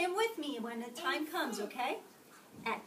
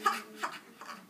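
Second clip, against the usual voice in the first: eerie hyena laugh; faster than usual. A narrator's reading. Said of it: "laughing eerily".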